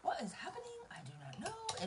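overwhelmed, tearful cry; crying disbelief. Real, not acted. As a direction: plead with yourself through tears. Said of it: "Deep breaths, I know".

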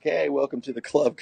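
ordinary delivery

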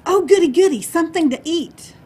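high, loud burst of glee; gleeful, high-pitched storybook mouse; excited mouse. Acted. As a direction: squeal with delight as a hungry mouse. Mouse spots a package being unpacked.

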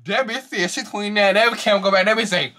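high voice still laughing; laughing talk. Real, not acted. Still laughing about the age claim, high. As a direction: speak through fading laughter.

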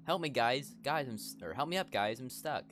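put-on high, loud girly cry for help; hammed-up girl in trouble. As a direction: yelp like a girl stuck on a branch. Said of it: "I'm not doing voice acting".

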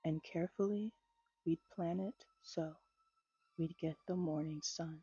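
measured, gentle poetry recital; poem reading. A narrator's reading. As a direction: read the verses unhurried, savoring each line. Reads Dorothy Parker poem aloud.

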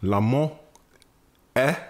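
slow, measured quote reading; solemn recitation. Acted. Ending the podcast with a French quote, solemn recitation. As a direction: recite it with drawn-out ceremony.

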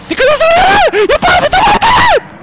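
extremely high, loud screams; panicked shrieking. Real, not acted. Gamer warning as danger hits in game, panicked shrieking.

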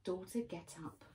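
soft, tender call to wake; quiet loving words to a daughter; gentle command. Retold or imitated. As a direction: softly rouse the girl. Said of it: "he says".

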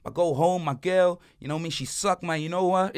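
lightly imitated cool-cat hustler; a hint of the local plug's talk; Ramon. Plug confiding about his wife to tourists, lightly imitated. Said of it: "Like, that's how he says".

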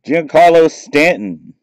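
thrilled gasp of a name; excited disbelief. Real, not acted. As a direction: shout the name like you can't believe the pull. Pulls a star card, stunned.

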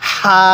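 long level হা on an audible breath; airy হা. Shown as a demonstration. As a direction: say হা with a light stream of air from the mouth. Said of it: "মুখ দিয়ে হালকা বাতাস বের করবেন".

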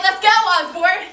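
coach yell. Retold or imitated. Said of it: "I'm like".

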